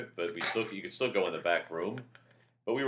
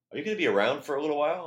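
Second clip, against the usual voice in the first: quoted director; 9 semitones higher, 5 dB louder, faster than usual. Retold or imitated. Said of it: "he goes".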